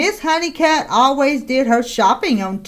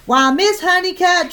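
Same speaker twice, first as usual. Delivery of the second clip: raised pitch, snooty call across the street; shouting; 5 semitones higher than usual. Acted. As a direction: sing out her name sharply. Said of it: "shouted Miss McSnoot".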